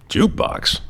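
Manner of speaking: high-pitched mock disbelief; baffled. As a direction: echo it back as a puzzled, high question. Acting his baffled reply to neighbor.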